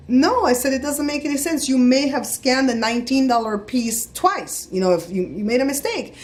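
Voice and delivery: firm correction without hostility; firm, not hostile. Retold or imitated. Customer telling cashier she made a mistake, firm but not hostile. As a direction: point out the error firmly but civilly. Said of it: "a firm but not hostile tone".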